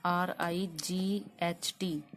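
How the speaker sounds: each letter spelled slowly and separately; slow spelling out. Shown as a demonstration. Teacher slowly spelling the word for students. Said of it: "जैसे मान लो कि राइट".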